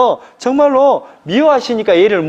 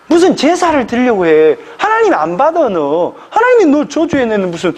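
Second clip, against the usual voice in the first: hammed-up sneering taunt, pitched higher; taunting rival wife; 4 semitones higher than usual. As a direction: jeer at her like the cruel rival. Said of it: "이렇게 격분시켜버렸단 말이에요".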